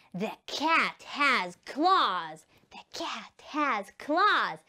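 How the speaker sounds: word by word for learners; slow repeat-after-me reading; slow model sentence. Shown as a demonstration. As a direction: pronounce each word slowly and separately. Teacher models sentence slowly.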